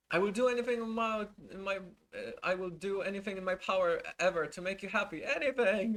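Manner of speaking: high, fast, fawning devotion; gushing assistant. Retold or imitated. Mocking the assistant's praise to Depp, high and fawning.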